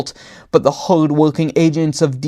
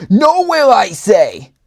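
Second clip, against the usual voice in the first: much higher, louder hammed-up cry on Nowhere; loud call; 6 semitones higher, 4 dB louder than usual. A narrator's reading. Bowtie calls to his coworker over raging clowns, hammed-up. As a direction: fling the word up over the crowd. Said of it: "Bowtie called to his coworker".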